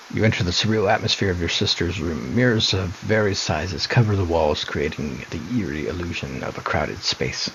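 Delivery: calm, hushed narration of an eerie room; story narration. A narrator's reading. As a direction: read it like a spooky storybook. Reads game narration.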